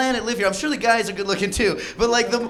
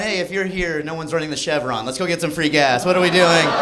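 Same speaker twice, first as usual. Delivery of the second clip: mock audience heckle; 5 semitones lower than usual. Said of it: "Some of you are just looking at me going".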